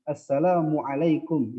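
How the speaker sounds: "Assalamualaikum" pelan, tiap suku Arab jelas; Arabic pronunciation. Shown as a demonstration. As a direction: ucapkan "Assalamualaikum" ala Arab, perlahan. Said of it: "bacanya langsung". (salam dengan lafal Arab yang fasih)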